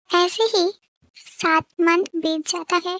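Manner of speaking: slow, measured storyteller voice; unhurried fan-story narration. A narrator's reading. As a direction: close the chapter slowly, like a narrator.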